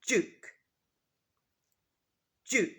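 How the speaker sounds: Duke with a J sound, like jook; British Duke, J sound; British pronunciation. Shown as a demonstration. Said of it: "it's a J sound".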